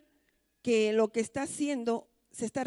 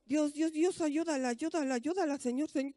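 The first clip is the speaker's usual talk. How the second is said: softer, pleading under the breath; silent inner prayer; 6 dB quieter than usual. Retold or imitated. Child praying for her mother in silence, softly. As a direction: pray to yourself so nobody hears. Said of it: "viendo y por dentro".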